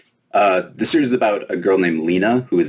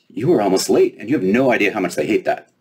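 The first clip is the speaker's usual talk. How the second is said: lightly voiced haughty fairy girl; a hint of a snooty fairy girl; fairy princess voice; 3 semitones higher than usual. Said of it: "She looked Lena over".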